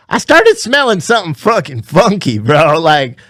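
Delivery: worked-up Southern storytelling; Southern accent. Real, not acted. Telling of a funky gym smell, Southern accent. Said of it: "talking with a Southern accent".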